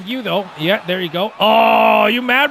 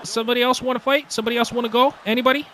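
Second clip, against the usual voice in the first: taunting challenge; 5 semitones higher, much faster than usual. Real, not acted. Taunting opponents after a fight.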